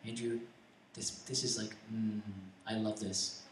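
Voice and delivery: very soft, low, intimate murmur; God's whispering voice. Retold or imitated. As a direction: speak gently, as a quiet inner voice. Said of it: "that whisper sometimes".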